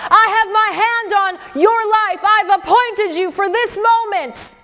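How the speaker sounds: a lightly voiced divine call; voice of God. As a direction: speak as God claiming his chosen. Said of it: "Hear the Father calling you".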